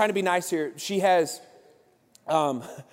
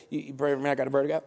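low, softer, slurred request; mumbling man; 4 semitones lower, 4 dB quieter, much faster than usual. Retold or imitated. Man asking for prayer, low unintelligible mumble. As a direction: run the words together so they barely make sense. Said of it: "what did you say?".

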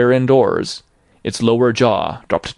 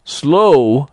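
indignant exclamation; 4 semitones higher, 6 dB louder than usual. A narrator's reading. Ghost repeats indignantly.

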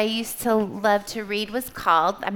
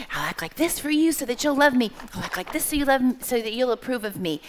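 put-on eager-to-please child; 3 semitones higher, faster than usual. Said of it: "So I would be like".

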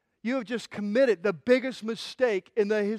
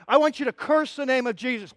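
raised, forceful demand; acted interrogator; 5 semitones higher, 5 dB louder than usual. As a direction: order a prisoner to obey.

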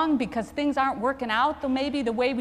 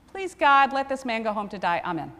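quick prayer. Shown as a demonstration. Chaplain showing the hurried prayer he said for the patient. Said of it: "Like that".

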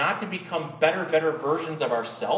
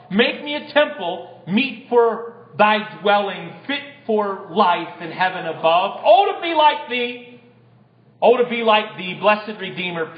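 poem recitation; 3 dB louder than usual. Acted. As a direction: recite it like a prayer rising to a climax, then fall away at the end.

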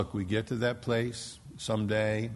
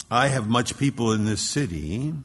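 triumphant declaration; 6 dB louder than usual. Acted. Triumphant climax of the verse.

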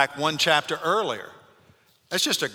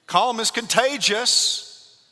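calm stretched out, high and slow; slow stress; 9 semitones higher, 4 dB louder, much slower than usual. Acted. Preacher hammering home the point to the congregation. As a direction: drag each word out for weight.

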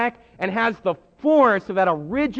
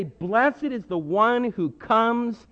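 slow, drawn out blessing; solemn acclamation; slower than usual. Retold or imitated. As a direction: let each word land. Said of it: "They say".

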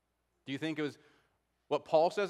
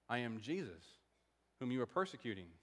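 soft, low quoted voice of the Lord; hushed divine answer; 4 semitones lower, 9 dB quieter, faster than usual. Acted. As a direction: lower and much softer, with grave pauses. Quoting the Lord's answer to Paul.

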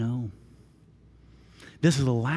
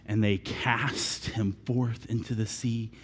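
lower, softer, very slow; hushed and slow; 6 semitones lower, 7 dB quieter, much slower than usual. A narrator's reading. Preacher retells the calm sea, slow and hushed. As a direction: let it fade into stillness.

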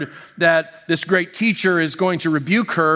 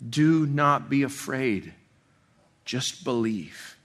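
slow, soft reassurance; Jesus reassuring the grieving ruler, slow and soft; 2 semitones lower, 4 dB quieter, slower than usual. Retold or imitated. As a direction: hold up a grieving father gently. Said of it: "assurance and kind word".

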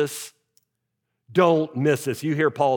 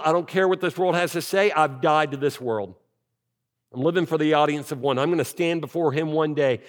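a light touch of Paul's conviction; voicing Paul. Pastor voicing Paul's resolve, lightly acted. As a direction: speak as Paul, resolute but not acted. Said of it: "Paul says".

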